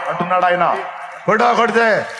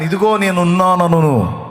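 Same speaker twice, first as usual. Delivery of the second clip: proclaiming God's promise; 5 dB louder, slower than usual. Acted. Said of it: "ఆయన".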